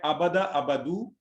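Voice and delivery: drawn-out अबदा, अबदू with rising end; teacher spelling out अबदा and अबदू slowly; slow careful Arabic verb forms. Shown as a demonstration. Teacher to students, slow careful drilling. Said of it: "इसकी हरकत में फर्क है".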